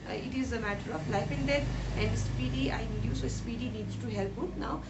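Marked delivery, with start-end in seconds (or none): 2.0-3.1 retold call. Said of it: "Greg called Speedy anxiously".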